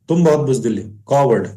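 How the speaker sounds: ordinary delivery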